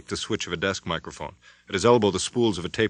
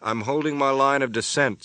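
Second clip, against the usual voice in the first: deliberate; 6 semitones higher, 3 dB louder than usual. Acted. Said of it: "Spencer intoned deliberately".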